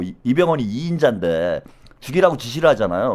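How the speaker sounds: usual speaking voice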